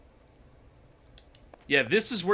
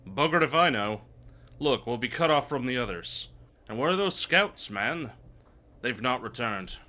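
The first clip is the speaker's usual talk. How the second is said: lightly put-on, vaguely Irish game-character accent; almost-Irish accent. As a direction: read the dialogue with a hint of uncertain Irish. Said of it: "what accent these guys are supposed ... almost Irish".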